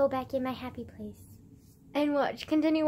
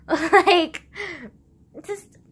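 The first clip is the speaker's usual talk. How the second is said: exasperated outburst; 5 semitones higher, 11 dB louder than usual. Real, not acted. Outburst after laugh.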